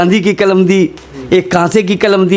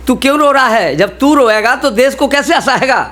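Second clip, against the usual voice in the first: goddess voice; 6 semitones higher than usual. Acted. Water goddess addresses crying poet.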